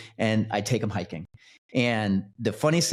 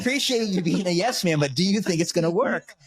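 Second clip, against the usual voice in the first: mock pleading; 8 semitones higher than usual. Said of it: "quoting himself to buddy".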